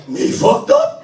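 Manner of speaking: very high squeaky denial; mock innocence. Drunk teen denying to his mother, high and innocent. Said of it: "that I like to call".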